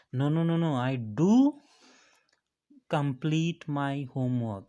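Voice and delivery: loud insistent no no no, punching DO; forceful insistence. Shown as a demonstration. Student insisting to accuser, stress on do. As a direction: insist hard that you did it. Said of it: "in order to give force on your activity".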